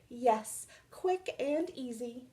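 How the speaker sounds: soft, purring cat voice. Acted. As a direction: purr the words out contentedly. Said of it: "Mister Fuzzbuster purred".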